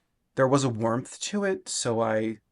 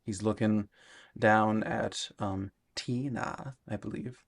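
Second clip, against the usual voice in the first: villain impersonation. Pretend. Painter doing a half-hearted horror villain impersonation. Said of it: "That was my impersonation".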